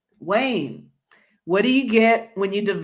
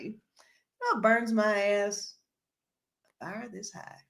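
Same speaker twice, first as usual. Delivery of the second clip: a singer; 4 dB quieter than usual. Retold or imitated. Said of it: "a singer's".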